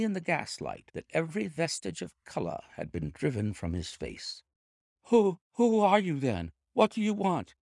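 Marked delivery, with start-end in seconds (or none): 5.0-7.5 high, frightened quaver. A narrator's reading. Little man confronted by a stranger, quavering voice. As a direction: stammer it out high, as if badly startled. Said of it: "he asked in a quavering voice".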